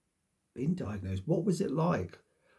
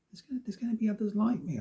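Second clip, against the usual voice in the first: higher and fast, talking herself into it; excited insistence; 8 semitones higher, faster than usual. Retold or imitated. Recalling her own thought, convincing herself, higher and fast. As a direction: rush it out, eager and sure. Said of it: "I thought".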